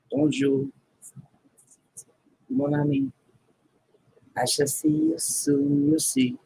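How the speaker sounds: lightly put-on French accent, high; mock French accent, bidding a friend goodbye. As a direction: play a hammy Frenchman saying goodbye.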